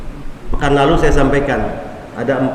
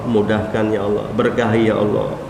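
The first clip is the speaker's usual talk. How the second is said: quiet prayer; 4 semitones lower, 5 dB quieter than usual. Retold or imitated. Old man praying for host.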